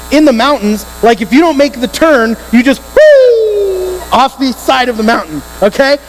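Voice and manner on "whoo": long high whoo gliding down; imitated falling whoosh. Shown as a demonstration. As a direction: hoot the plunge off a cliff. Imitates flying off the mountain.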